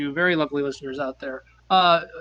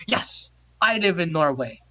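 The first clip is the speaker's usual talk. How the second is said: lightly put-on Norwegian accent, a bit higher; mock Norwegian accent; 4 semitones higher than usual. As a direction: play the Norwegian stranger in broken English. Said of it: "this accent is".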